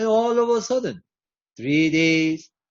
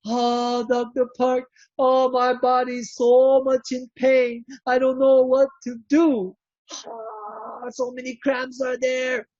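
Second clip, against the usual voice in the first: higher voice, mild complaint of pain; lightly voiced pained patient; 5 semitones higher than usual. Patient phoning the doctor, a touch of pained complaint. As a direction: whine a bit about the cramps. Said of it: "she called".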